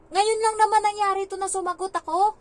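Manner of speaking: put-on high, loud child's voice, defensive; a pouting child insisting it only happened once; child's protest. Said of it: "Sabi niya".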